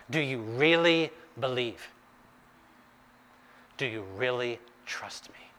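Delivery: dropping to an intimate whisper; searching whisper. Acted. Jesus quietly probing the father's trust, whispered. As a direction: ask it softly, close and personal.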